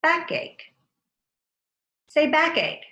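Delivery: Backache lifted high; high answer. Shown as a demonstration. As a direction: lift the new word up high. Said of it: "Change fire to ache".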